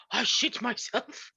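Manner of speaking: put-on slow German-dad accent drifting into Russian; attempted German accent, sounding Russian; dad's attempted German accent. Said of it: "try to make him sound Russian".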